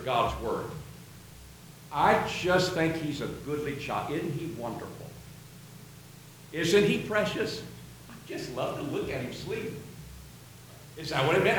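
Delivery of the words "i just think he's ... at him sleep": lightly acted mother, softly admiring her baby; hushed, tender fondness; doting.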